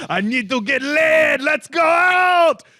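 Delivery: very high, pumped-up, fired-up shout, rising in pitch. The speaker retells a favorite scene of Ilya bursting from a hotel bathroom, retelling Ilya's fired-up yell. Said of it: "fired up yelling".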